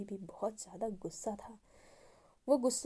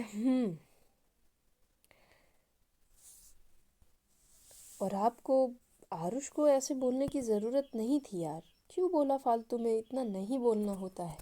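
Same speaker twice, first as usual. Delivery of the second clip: scolding; 3 semitones higher, 4 dB louder than usual. A narrator's reading. Anu scolds Eva about Aarush.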